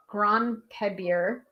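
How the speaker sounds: Gronpebir spelled out slowly, syllable by syllable; halting Welsh name. Shown as a demonstration. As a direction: feel your way through Gronpebir slowly and unsure. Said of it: "I'm butchering my Welsh".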